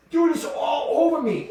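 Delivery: high-pitched re-enacted panic; frantic. Explaining to his coworker why he stripped, high frantic protest.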